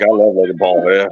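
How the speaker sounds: low, lazy fanboy voice; a hint of a dopey fan; mock fanboy voice. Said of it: "He's like".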